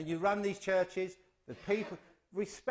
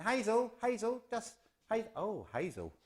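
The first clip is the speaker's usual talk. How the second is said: calling out; 6 semitones higher than usual. Retold or imitated. Technician calling out to Mum.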